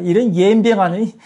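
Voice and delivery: 전라도 사투리로 "옌병하네" 웃으며 툭; playful mock Jeolla swearing; Jeolla dialect curse. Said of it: "이제 전라도 버전 할게". (전라도 사투리로 장난스럽게 욕하기)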